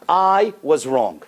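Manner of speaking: slow, weighty "I was wrong"; slow emphatic. Shown as a demonstration. Counselor giving the key phrase, slow and weighty. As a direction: deliver each word deliberately. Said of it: "three most important words".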